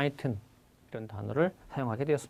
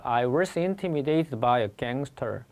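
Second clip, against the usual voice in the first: slow model sentence; much slower than usual. Shown as a demonstration. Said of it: "많이 쓰는 거겠죠".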